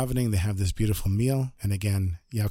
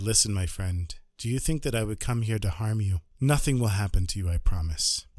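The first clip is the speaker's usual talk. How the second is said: calming. Acted. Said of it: "calmed him down".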